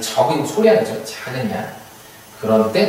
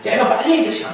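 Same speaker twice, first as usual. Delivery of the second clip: mock hurry-up yell; 12 semitones higher, much faster than usual. Teacher acting out a boss beating a worker to hurry, high mock yell.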